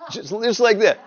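high, loud laughing disbelief. Real, not acted. Husband recalling his wife's blunt greeting, laughing. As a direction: laugh it out, still amazed.

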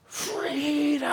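a high drawn-out freedom cry; Braveheart cry. Acted. Preacher echoing Braveheart's cry, high and drawn out. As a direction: echo Braveheart's last word. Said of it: "Braveheart praying".

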